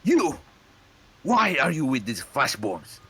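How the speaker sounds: sudden high loud accusation; accusing shout. Acted. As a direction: call him out across the road. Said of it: "the Warforged spots Crucible".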